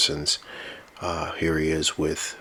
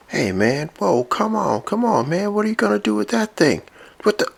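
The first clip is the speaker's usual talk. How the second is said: much higher, quick mock panic; nervous high voice; 5 dB louder than usual. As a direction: back away pleading, voice rising. Robot sees weapon pointed at him.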